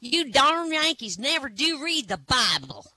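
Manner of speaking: high-pitched angry church lady; hammed-up furious Southern lady; mock rage. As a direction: shriek it like an offended shopkeeper. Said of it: "screaming at me".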